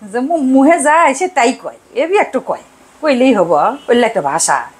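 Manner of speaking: mild Sirajganj dialect impression; imitating Sirajganj dialect. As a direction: quote the house helper in her Sirajganj speech. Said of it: "আমার বাসার যে সাহায্যকারী ... সে বলে কি".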